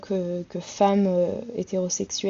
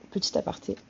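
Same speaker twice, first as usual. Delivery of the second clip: whispered aside; 5 dB quieter, faster than usual. Real, not acted.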